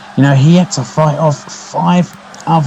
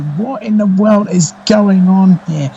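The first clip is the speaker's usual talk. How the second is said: surprised; 6 semitones higher than usual. Real, not acted. Lights go out mid-match.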